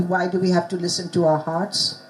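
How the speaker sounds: reads the dialogue line to the class; reading the line out calmly for the class; reading aloud. Shown as a demonstration. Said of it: "I'll just read you".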